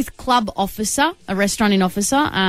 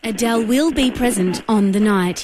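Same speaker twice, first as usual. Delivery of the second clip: automated operator voice. Pretend. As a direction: read it like a phone menu. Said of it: "automated operator voice".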